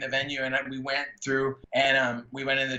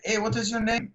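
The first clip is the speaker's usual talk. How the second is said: higher-pitched, lightly put-on Mexican accent; 9 semitones higher than usual. Lighting man asks a young fan his name, Mexican accent. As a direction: imitate a thick Mexican accent. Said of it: "had this really thick Mexican accent".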